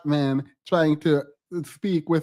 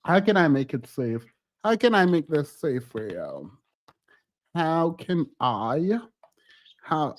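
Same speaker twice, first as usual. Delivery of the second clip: mock tender; 2 semitones lower than usual. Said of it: "mock-tender offer to Jacob".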